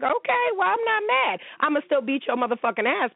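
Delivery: mock calm. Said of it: "I was like".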